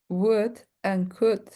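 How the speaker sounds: "Would and could" slow, L silent; "could" diucapkan tanpa bunyi L. Shown as a demonstration. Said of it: "We don't pronounce the L".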